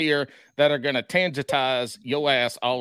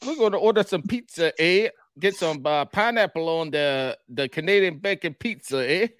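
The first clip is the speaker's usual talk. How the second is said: put-on Canadian accent. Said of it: "let's hear it again to refresh".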